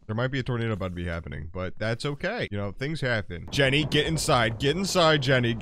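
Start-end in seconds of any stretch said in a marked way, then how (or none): 3.5-5.5 loud urgent call to come in; urgent shouting. Real, not acted. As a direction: yell at her to get inside now. Urging Jenny in during tornado.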